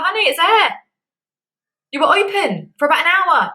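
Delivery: high, patient nurse reassuring a worried patient; calm medic voice. Retold or imitated. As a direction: soothe her like a kindly nurse. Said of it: "it was like".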